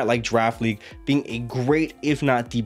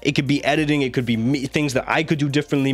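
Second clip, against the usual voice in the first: voice giving out. Real, not acted. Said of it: "sorry I sound goofy".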